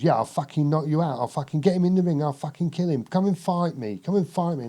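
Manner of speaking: mock-aggressive boxer goading his rival; imitating Nigel Benn. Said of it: "That's how he talked".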